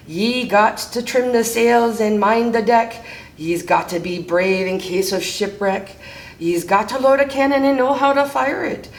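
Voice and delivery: lightly voiced pirate, rhythmic rhyme; pirate captain declaring. Pete tells rascals the rules, lightly voiced pirate declaration.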